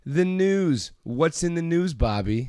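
put-on high-pitched old Jewish lady. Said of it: "your weird Jewish lady voice".

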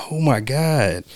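breathless whispered awe; awed whisper. Retold or imitated. Friend retelling a movie heroine's awe, whispered. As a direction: whisper it in wonder. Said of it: "She's like".

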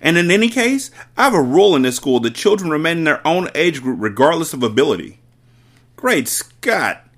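blustering headmistress. Acted. Headmistress rejecting the plan, loud bluster. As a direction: bluster with outrage. Trunchbull lecturing.

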